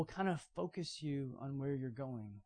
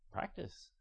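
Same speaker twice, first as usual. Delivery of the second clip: whispered command; 4 semitones higher, 9 dB quieter than usual. Retold or imitated. Quoting Paul's one-word command.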